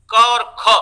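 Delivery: plain क, then ख with a puff of breath; unaspirated-aspirated contrast. Shown as a demonstration. Teacher showing breath contrast to trainees, क unaspirated, ख aspirated. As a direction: punch out क and a breathy ख. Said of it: "अल्प प्राण और महाप्राण".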